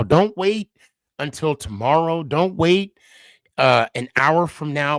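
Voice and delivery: begging the listener not to put it off; heartfelt urgent appeal; urgent plea. Real, not acted. Urging viewers after losing parents.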